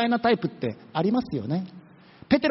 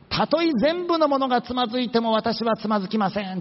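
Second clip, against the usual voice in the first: smug boast; 3 semitones higher than usual. Retold or imitated. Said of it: "いやらしいね、言い方がね".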